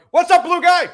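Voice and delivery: high, loud heckle call; imitating a fan shouting out; mock yell. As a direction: yell it across the stadium. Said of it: "some guy yells out".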